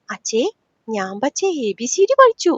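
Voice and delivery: lightly voiced small child; a hint of toddler talk; little child. Little girl proudly tells father she learned ABCD, lightly childlike. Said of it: "കുഞ്ഞാറ്റ പിന്നെയും വിളിച്ചു".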